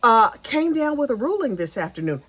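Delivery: low, whispered mock-sultry judge; imitating judge's sultry voice. Judge announcing his ruling, mock sultry whisper. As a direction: hush it like a seductive judge. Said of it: "that deep, sultry voice".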